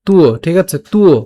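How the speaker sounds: তুও with a tu-o glide; tv as tuo. Shown as a demonstration. Teacher models the conjunct, তুও as tu-o. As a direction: stretch তুও from u into o. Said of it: "এটাকে উচ্চারণ করতে পারি".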